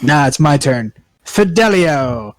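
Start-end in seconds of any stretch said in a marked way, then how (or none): 1.2-2.4 slow dramatic incantation; magic word. Acted. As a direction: intone it like a spell.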